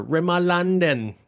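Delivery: "Rimmel London" in an exaggerated British accent; mock British accent. Shown as a demonstration. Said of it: "It's the accent tales".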